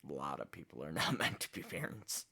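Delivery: repeats it with a rueful chuckle; bitter laugh. Real, not acted. Repeating the line about parents, rueful laughing. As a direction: laugh through it in disbelief.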